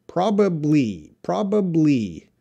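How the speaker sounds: "Probably" spoken carefully with every syllable, pitch falling; pronunciation model. Shown as a demonstration. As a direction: model "probably" clearly for a learner. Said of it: "how do you pronounce probably".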